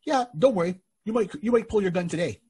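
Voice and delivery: sly ominous reassurance. Retold or imitated. Springfield smugly assures the retiring guard, sly and ominous. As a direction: tease the guard that trouble is coming.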